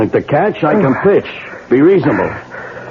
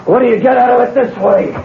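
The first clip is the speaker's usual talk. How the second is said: much higher, fast and frantic; frantic outburst; 12 semitones higher, faster than usual. Acted. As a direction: fling the question at him. Arrested gunman rails at Leo.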